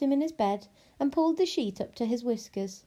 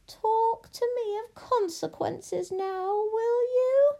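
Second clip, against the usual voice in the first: high, slow, rising taunt; gloating witch; 12 semitones higher, slower than usual. Acted. Witch mocks the warthog princess, gloating. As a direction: taunt her slowly, climbing higher.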